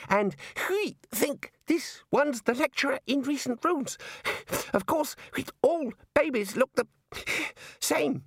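high, wheezy gasps between phrases; breathless. A narrator's reading. Ageing Ponder reports on the babies, breathless and high. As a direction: break it up, short of breath. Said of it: "Ponder suddenly felt breathless".

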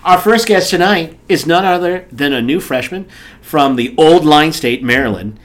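talk-show intro, key words stretched out; show host introduction. Acted. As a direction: announce the guest with a build-up. Introduces the guest.

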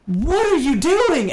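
yelled high and loud; shouting. Retold or imitated. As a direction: shout it at the driver. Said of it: "and I was like".

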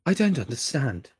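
lightly mocked computer voice; a touch of smarmy British politeness; smarmy British assistant. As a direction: imitate a smug digital assistant. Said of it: "why are they always smarmy British people".

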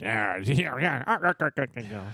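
cartoon sailor's chuckling grunts; playful string of staccato cackles; imitated Popeye fight noises. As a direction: mimic a cartoon scuffle with rhythmic "ah" sounds.

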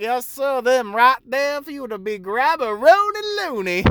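mock-polite reply. Barista answering the straw customer, a touch sing-song polite. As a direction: play the servile barista tongue in cheek. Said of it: "Be like".

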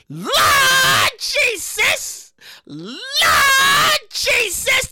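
stunned church shout; shocked outcry. Real, not acted. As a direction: cry out to the Lord.

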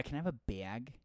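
Michigan vowel on bag; lightly put-on Michigan accent. Shown as a demonstration. Echoing the cohost's Michigan joke, Michigan accent. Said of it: "Hey, Michigan".

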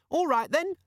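very high, smug little squeak; squeaky demon voice. Acted. The demon contradicting Vimes, smug squeak. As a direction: answer like a smug gadget.

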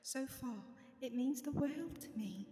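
put-on British accent, slowing at the end. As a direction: have a go at sounding British. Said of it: "this is my British accent".

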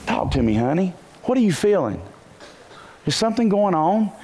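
tender. Shown as a demonstration. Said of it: "maybe you touch their hand".

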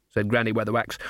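usual speaking voice

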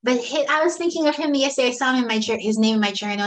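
ordinary delivery

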